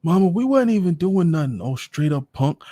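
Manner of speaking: put-on high kid voice, whining innocence; a boy insisting he did nothing; protesting boy. Younger son protests to his mother, high kid voice.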